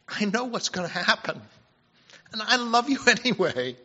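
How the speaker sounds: tender, forgiving Jesus with a laugh on anyway; loving reading. Pretend. Jesus forgiving Peter in advance, tender with a little laugh. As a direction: say it fondly, chuckling with love. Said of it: "The heart of the Lord is".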